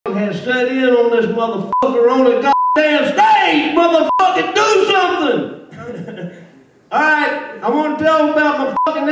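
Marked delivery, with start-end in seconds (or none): 0.1-5.4 mock stage fright panic. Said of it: "I'm stage fright". 5.5-6.3 real laugh. Real, not acted. Laughs after his outburst.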